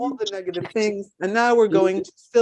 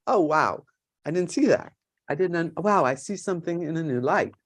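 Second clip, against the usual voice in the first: mock realization; 4 semitones lower, 4 dB quieter than usual. Shown as a demonstration. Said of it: "the aha moment".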